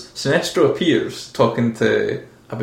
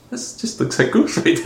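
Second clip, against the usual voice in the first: whispered; 8 semitones higher than usual. Retold or imitated. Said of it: "I was like".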